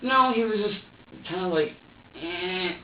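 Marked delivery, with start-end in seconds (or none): 2.2-2.7 put-on higher "eh" of a fussing baby; imitated fussy grunt. Suspect showing interviewer how baby fussed, imitated grunt. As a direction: imitate a baby's small straining fuss. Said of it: "like, fussy".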